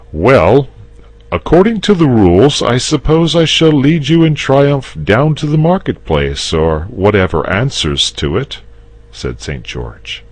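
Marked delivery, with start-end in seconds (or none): 0.1-8.6 higher, louder, quick recital of the rules; knight explaining. Acted. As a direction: rattle off the usual plan. George's speech, character voice.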